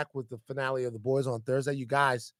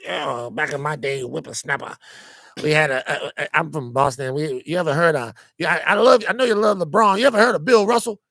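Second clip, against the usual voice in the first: put-on light, louder old man ramble; old man Isaiah voice; 4 semitones higher, 4 dB louder than usual. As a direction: play a cranky old-timer, lightly. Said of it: "Old Man Isaiah Blakely".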